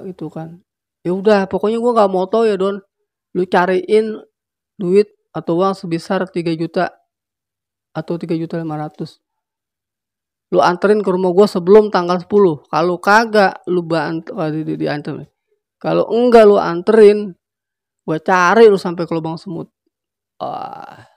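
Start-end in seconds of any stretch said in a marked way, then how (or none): 1.0-14.3 loud, pushy ultimatum; threatening demand. Acted. Rusman on the phone, demanding his money from Doni: loud threat. 15.8-19.7 loud, menacing warning; loud threat. Acted. Rusman warning Doni he'll hunt him down: loud threat.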